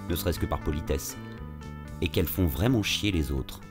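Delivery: calm reflective narrator voice; story narration. A narrator's reading. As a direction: tell it like a podcast intro. Episode narration over music.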